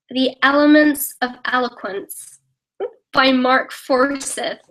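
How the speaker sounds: slow, deliberate American accent; put-on American accent, drawn out. Shown as a demonstration. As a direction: read the title slowly as an American. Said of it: "Say something in an American accent".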